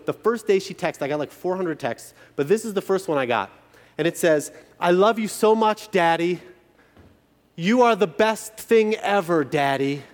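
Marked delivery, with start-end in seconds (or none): 4.8-10.0 daughter's sweet text. Retold or imitated. Daughter's text voiced by dad.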